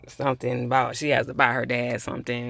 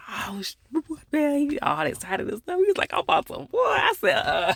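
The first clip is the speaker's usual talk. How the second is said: high-pitched, cracking up mid-sentence; laughing while talking; 14 semitones higher than usual. Real, not acted. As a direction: barely get the words out through real laughter. Cracking up while retelling his excitement.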